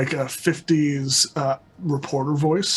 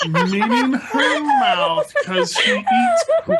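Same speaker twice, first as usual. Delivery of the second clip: laughing; 3 dB louder, slower than usual. Real, not acted. Joking amid group laughter.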